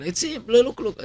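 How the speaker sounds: high, eager call to a coworker; excited calling. Retold or imitated. Guard calling the cashier over, excited and high. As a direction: point him out, thrilled.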